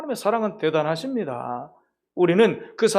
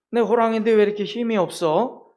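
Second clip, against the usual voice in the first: whiny cub; 3 semitones higher than usual. Acted. Cub tiger complaining to father.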